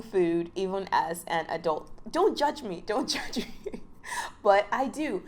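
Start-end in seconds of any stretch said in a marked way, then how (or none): 2.1-2.8 high, put-on squeaky voice; a playful high-pitched don't-judge-me; mock plea. Joking about eating baby food. 2.8-3.8 breathy, laughing half-whisper. Pretend. Repeats the plea, laughing.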